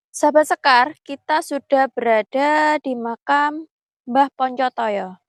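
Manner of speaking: hushed, careful vlog voice; nervous night vlog whisper. Real, not acted. Hushed talk at the grave.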